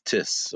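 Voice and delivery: "tis" with a hard t, no th; the t of "tis" stopped, no th sound. Shown as a demonstration. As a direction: say "tis" with the tongue behind the teeth. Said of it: "may not pronounce T H, becomes tis".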